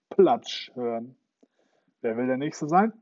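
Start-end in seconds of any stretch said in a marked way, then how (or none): 2.0-2.9 louder, a threatening shout. Acted. Captain threatens his crew with his hook, shouting. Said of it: "schrie der Captain".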